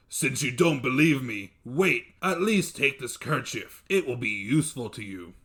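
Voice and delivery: loud, urgent monster voice; a giant begging him to stay; pleading dev. Acted. Dev urging his brother-in-law not to go, loud and urgent.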